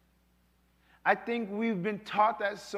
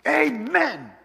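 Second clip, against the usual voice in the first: abrupt mock amen; 6 semitones higher, 8 dB louder than usual. Hanging up abruptly.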